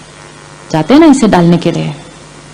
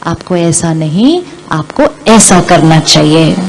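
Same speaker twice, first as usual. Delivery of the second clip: lovingly; 4 semitones lower than usual. Retold or imitated. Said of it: "बड़े प्यार से बोलते हैं".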